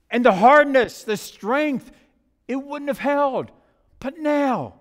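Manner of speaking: forceful, driving preacher's delivery; impassioned explanation. Acted. Master explaining each hardship to the teacup, impassioned. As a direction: press each reason home with mounting conviction.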